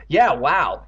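loud, sarcastic echo; mock the other's amazement. Evan echoes Andy's amazement, sarcastically. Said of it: "he replied sarcastically".

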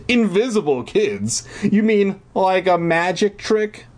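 high-pitched, mocking questions; amused disbelief. A narrator's reading. Brother laughs off disappearing kids, teasing disbelief. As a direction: tease her, voice up high. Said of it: "He laughed".

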